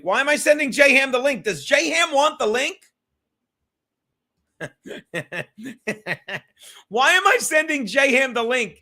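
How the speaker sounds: high, loud disbelief at himself; incredulous. Real, not acted. Host on livestream baffled at his own mistake, incredulous. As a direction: ask yourself in amused disbelief.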